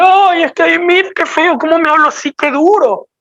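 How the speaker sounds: a touch of a whining, offended churchgoer; mock offended listener. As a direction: imitate someone hurt by harsh words. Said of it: "no te digo esto con el objetivo que".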